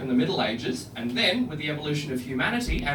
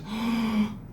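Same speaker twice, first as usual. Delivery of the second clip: mock gasp; 3 semitones higher, 5 dB quieter than usual. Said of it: "she just went".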